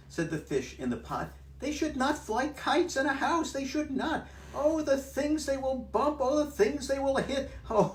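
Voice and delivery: very high, loud near-tearful fish; fretting fish. Acted. Fish in the pot near tears, pleading with the cat. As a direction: wail about the mess. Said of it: "the fish is almost about to cry".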